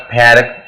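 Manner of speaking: "फैरक" for park, with a flat A and sounded r; wrong pronunciation. Shown as a demonstration. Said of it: "it's not a". ("फैरक" जैसा गलत उच्चारण)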